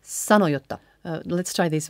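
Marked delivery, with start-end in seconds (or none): 0.0-0.8 sanoi jotta quickly joined; N out, J doubled. Shown as a demonstration. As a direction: run sanoi into jotta through a long J. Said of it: "leaving out the N and doubling the J".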